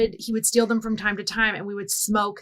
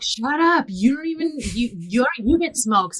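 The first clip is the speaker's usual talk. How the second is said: indignant comeback; 4 semitones higher, 3 dB louder than usual. Retold or imitated. Friends argue back, retold.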